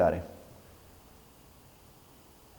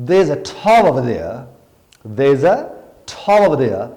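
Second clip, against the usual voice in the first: very slow thick desi accent, thaw for tower, louder; Pakistani English accent; 5 dB louder, much slower than usual. Shown as a demonstration. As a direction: drag it out in a heavy local accent. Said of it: "اگر میں آپ سے کہتا ہوں". (بہت آہستہ دیسی لہجے میں There is a thaw over there)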